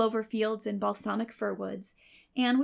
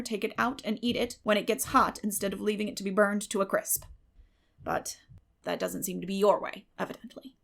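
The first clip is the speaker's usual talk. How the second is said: sarcastic Marilla. Acted. Marilla teasing Anne about the burnt pie, dry sarcasm. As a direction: needle her with weary sarcasm.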